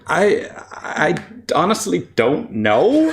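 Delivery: embarrassed laughing. Real, not acted. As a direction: laugh through the words.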